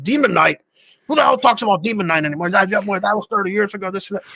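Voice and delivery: high, dismissive Sadler impression; mock incredulous actor; scoffing actor voice. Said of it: "He's like".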